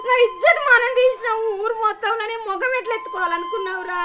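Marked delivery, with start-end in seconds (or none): 0.1-1.5 weeping over lost honour; sobbing accusation; tearful lament. Acted. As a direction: cry the words out.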